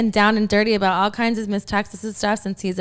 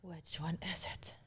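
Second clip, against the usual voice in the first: whispering; 3 semitones lower, 18 dB quieter than usual. Real, not acted. Asks about the drawn card.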